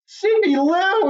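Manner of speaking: high, slow drawn-out call of a name; fans calling out. Retold or imitated. Fans calling out to her, a high slow call. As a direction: sing out the name, high and stretched. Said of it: "everyone's like".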